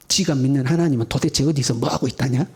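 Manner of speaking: low, grumbling gossip; snide gossip. Acted. Townspeople questioning where the believer's God is, snide gossip. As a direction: sneer about someone behind their back. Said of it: "사람들이 수군거리는 거예요".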